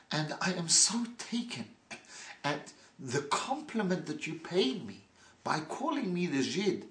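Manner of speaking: lightly voiced proud gentleman, smiling; proud gracious reply. Yidel answers the hooligans with smiling, proud courtesy. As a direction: answer the insult with mock gratitude. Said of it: "looks with pride and smiles and says".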